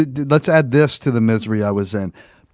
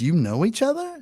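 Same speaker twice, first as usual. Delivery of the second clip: mock lady voice; 9 semitones higher, 4 dB quieter than usual.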